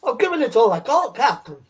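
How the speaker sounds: high, loud, strained engineer pushing the engines; starship engineer. Acted. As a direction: give it everything like a ship's engineer under pressure. Answers "we need more power.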